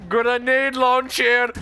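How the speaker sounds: slow, drawn-out shout. Acted. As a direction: bellow the weapon name. Shouting weapon name.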